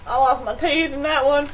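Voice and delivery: laughing loudly; giggling through the words. Real, not acted. Laughing after spill.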